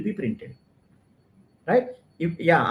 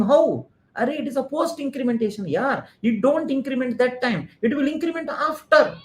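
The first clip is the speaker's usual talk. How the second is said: excited protest; 6 semitones higher than usual. Retold or imitated. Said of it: "you started shouting".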